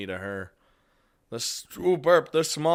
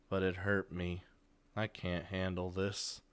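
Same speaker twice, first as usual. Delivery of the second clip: softened, drained delivery; lifeless voice; 3 semitones lower, 6 dB quieter than usual. Acted. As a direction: let it fall quietly, with no life left. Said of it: "It's a lifeless voice".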